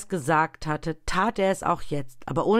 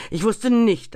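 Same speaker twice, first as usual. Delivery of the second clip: lauter, höher ansetzender Klageruf; klagender Ausruf; 6 semitones higher, 8 dB louder than usual. A narrator's reading. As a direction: ruf die Reue laut hinaus. Geist klagt laut. (das Gespenst klagt laut auf)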